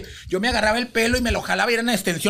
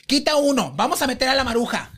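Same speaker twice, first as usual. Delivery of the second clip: higher-pitched imitated boss; bossy orders; 4 semitones higher than usual. TV host rearranging today's cases with staff, bossy orders. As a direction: rattle out decisions as the show's host. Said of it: "y le habla y le dice".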